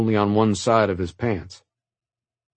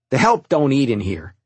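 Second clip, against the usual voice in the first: a touch of a sneer, a bit louder; mild snarl; 5 semitones higher, 4 dB louder than usual. Acted. Teen son scorning the maid at dinner, mild snarl. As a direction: snap it out with mild contempt. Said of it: "Donald snarled".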